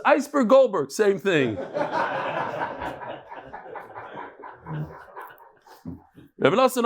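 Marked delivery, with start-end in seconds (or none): 0.0-1.6 joke punchline. Pretend. 1.6-4.9 airy laugh at his own joke; a long soft laugh after the punchline; soft breathy laugh. Real, not acted.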